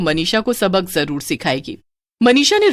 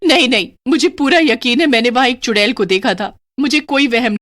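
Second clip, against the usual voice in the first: insistent; 4 semitones higher than usual. Acted. Insisting she saw witch.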